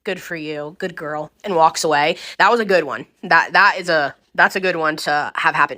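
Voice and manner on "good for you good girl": softer, patronizing pat on the head; quietly, like praising a child; imitating a sweet old lady, softer; soft mock praise. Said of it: "And she said".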